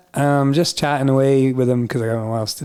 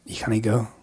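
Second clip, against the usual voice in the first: softer Scottish police voice, lightly put on; wee Scottish accent; 3 semitones lower, 5 dB quieter than usual. Police stopping hitchhiker, in a wee Scottish accent. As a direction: say "can't" as a Scottish "cannae". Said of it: "do the rest in a wee Scottish accent".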